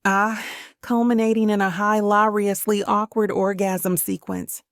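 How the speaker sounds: hammed-up Scottish brogue read aloud. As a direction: overdo a Scottish brogue, mocking the review. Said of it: "over-the-top Scottish brogue".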